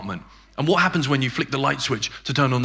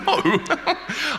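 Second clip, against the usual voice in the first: laughing; 10 semitones higher than usual. Retold or imitated. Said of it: "he started laughing".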